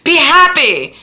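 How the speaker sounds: high, loud, slow drawn-out cheer; cheering herself on. Retold or imitated. To herself each painful morning, a loud high slow cheer. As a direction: sing it out big and bright. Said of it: "say to myself".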